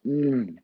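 appreciative "mm" of pleasure; savouring hum. Real, not acted. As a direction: hum with a delicious mouthful. Tasting Nutella and cream.

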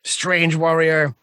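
high, drawn-out snarling challenge; angry enemy's snarl, words stretched out. Acted. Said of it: "he sort of snarls at you and goes".

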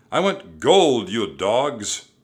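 loud, forceful bellowed demand; angry pirate captain. A narrator's reading. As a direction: bellow at the crew greedily.

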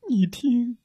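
high breathy whisper. A narrator's reading. Rabbit whispers to his friend to listen, high whisper. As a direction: urge them to listen, secretly.

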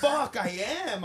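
dad mimicking his shocked teenage daughter. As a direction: play her sudden realization. Dad voices daughter's realization.

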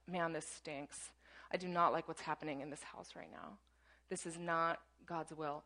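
a mild grumble, not real anger; mild mock grumble. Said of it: "he was not just like".

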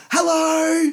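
mock-cheery, very high, loud hello; over-nice staff greeting. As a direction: sing it out like over-eager restaurant staff. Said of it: "they're fucking too nice".

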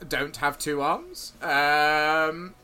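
hesitant, stop-start guard, slow in places; taken aback. Acted. Guard answering an odd question from a visitor, taken aback. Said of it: "like, taken aback by the question".

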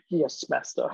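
low, quiet mock servant reply; sarcastic groveling. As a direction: fake obedience, lightly hammed.

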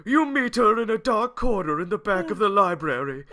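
put-on old wizard. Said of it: "I have to read it in a wizard voice".

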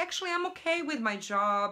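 fast, light mock self-persuasion; quick rationalizing. Voicing someone excusing the old job, quick light rationalizing. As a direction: rush to convince yourself it's fine. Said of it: "you think like".

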